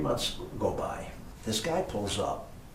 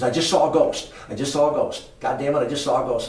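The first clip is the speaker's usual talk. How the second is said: imitating a terrified maid, higher and much louder; panicked ghost report, getting faster; frightened; 5 semitones higher, 9 dB louder than usual. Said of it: "frantic phone call".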